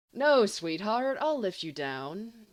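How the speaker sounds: a hint of syrupy sweetness, slow start; lightly hammed-up lovey-dovey simper; dripping simper. James mock-romancing Lily to annoy the boys, lightly simpering. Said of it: "with a dripping, horrible simper".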